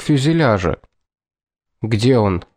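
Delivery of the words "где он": hoarse, shaken voice; suddenly hoarse. Acted. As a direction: voice catching hoarsely. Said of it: "внезапно охрипшим голосом". (внезапно охрипший голос)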